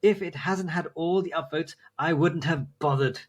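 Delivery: lightly hammed-up, self-important put-down; appropriate commenter voice. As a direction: read it as an indignant commenter making a point. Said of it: "read it in the appropriate voice".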